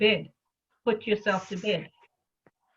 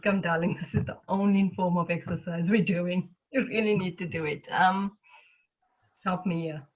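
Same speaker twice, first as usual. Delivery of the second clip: a hint of tender mothering; loving compassionate voice. Talking herself into the class, lightly tender. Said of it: "that loving, compassionate voice".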